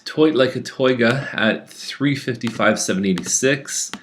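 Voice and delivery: mock Austin Powers Dutch accent; bad Dutch accent. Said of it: "that was the worst Dutch accent".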